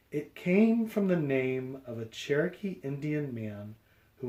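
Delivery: lively picture-book read-aloud; reading to children. A narrator's reading. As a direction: read it out to a class.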